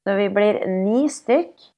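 gleeful slow reveal; excited announcement. Real, not acted. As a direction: stretch it out in glee. Announcing a crowded house.

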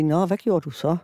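a touch of kind interest in a neutral question; friendly questioning. Retold or imitated. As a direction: coax him gently. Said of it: "spørge venligt".

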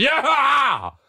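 high, long victory yell; re-enacted shout. Fan yelling from the balcony after the fourth goal, high shout. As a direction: whoop it out at full pitch. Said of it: "Mä parvekkeelle huusin".

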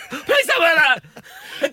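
very slow, high, drawn-out begging; mock pleading dad. Dad begging his daughter to change, drawn-out plea. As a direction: beg her like a defeated father.

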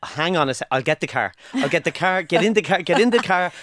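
building, hurried offers of help; eagerly helpful local. Acted. Irish local offering a lift, eager and insistent. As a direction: keep insisting, livelier with each offer.

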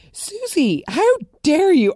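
mock outrage. Scolding Susie for meddling, hammed-up high outrage. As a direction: scold the screen in mock shock.

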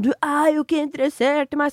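sulky reproach, lightly acted; mimicking him. Retelling the guy's last talk with her, a touch of mock sulk. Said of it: "han ... er sånn".

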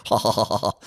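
mimicked run of ha-ha-has; mock the fans doing the giggle; imitated little giggle. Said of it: "Fellas going".

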